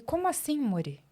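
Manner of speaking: mock-startled, pitch jumping up high; taken aback. Boss reacts to employee announcing she must quit, taken aback. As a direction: imitate a boss caught off guard. Acts out boss's startled reply.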